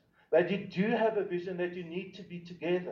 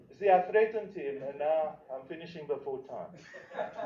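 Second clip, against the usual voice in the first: laughing; 2 semitones lower than usual. Real, not acted. Laughing joke to the audience.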